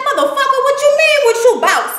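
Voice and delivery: high-pitched, mock-outraged retort; indignant comeback. Miss Charlene firing back in an argument, high-pitched mock outrage.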